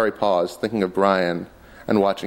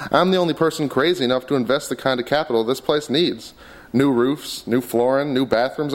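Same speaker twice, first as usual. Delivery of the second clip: Buck blustering; 3 semitones higher than usual. Acted. Buck argues with Terry.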